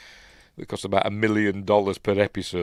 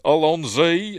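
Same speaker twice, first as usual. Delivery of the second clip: David Tennant catchphrase; 5 semitones higher, 5 dB louder, slower than usual. Retold or imitated. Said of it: "David Tennant could do a, a good, you know, Southern English accent".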